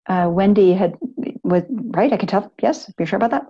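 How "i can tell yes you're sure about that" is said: hushed, gentle aside to one person; whispered check. Real, not acted. Quietly checking with Wendy in room.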